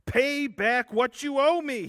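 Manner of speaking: loud, high, slow demand for payment; angry creditor demanding his money back. A narrator's reading. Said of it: "he demanded".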